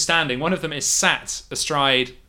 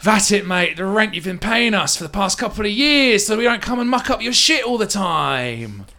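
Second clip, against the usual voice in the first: stock serious baddie; 6 semitones higher than usual. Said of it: "stock serious for a second, goes like".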